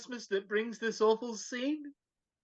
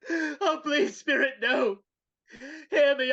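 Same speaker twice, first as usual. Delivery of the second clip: pleading sob; 3 semitones higher, 4 dB louder, slower than usual. Acted. Scrooge begs at his own grave.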